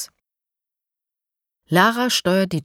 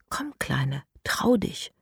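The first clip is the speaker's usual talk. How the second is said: very soft coaxing whisper; gentle whisper; 4 semitones lower, 6 dB quieter, slower than usual. Acted. Elias coaxes the piglet to eat from his hand, soft whisper. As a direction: coax the shy piglet closer. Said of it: "flüstert er".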